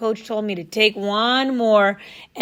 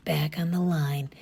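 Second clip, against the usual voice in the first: soft voiceless whisper; 4 semitones lower, 6 dB quieter than usual. Acted. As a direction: lean in and whisper it. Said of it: "almost as if he were whispering".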